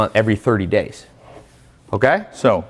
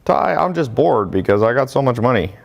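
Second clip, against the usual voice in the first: imagined rich student; 2 semitones higher than usual. Retold or imitated. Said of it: "that you're just like".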